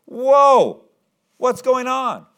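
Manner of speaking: high, loud, drawn-out exclamation; alarmed surprise. Acted. Jairus halted as Jesus suddenly stops, taken aback. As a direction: cry out in startled protest.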